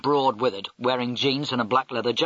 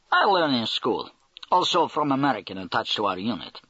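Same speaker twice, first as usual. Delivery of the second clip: put-on Russian accent. Russian major's voiced replies.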